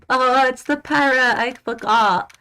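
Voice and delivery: high loud sudden realisation; surprised. Real, not acted. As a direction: blurt it out, startled.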